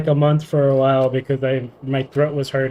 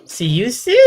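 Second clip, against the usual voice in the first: ordinary talk, nothing marked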